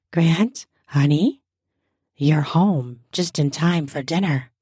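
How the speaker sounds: low, husky wife's voice. A narrator's reading. Wife greets husband home for dinner, husky. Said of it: "Ava spoke in her husky voice".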